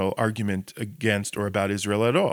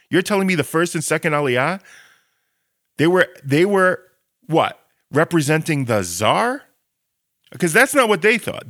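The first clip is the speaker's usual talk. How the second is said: louder and higher, disbelieving; incredulous sarcasm; 5 semitones higher, 4 dB louder than usual. Real, not acted. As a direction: scoff at the accusation. Mocking the colonialist charge.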